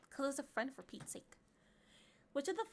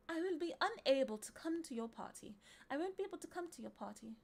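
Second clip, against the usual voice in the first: British accent; 3 semitones higher than usual. Shown as a demonstration. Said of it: "say it in a British accent".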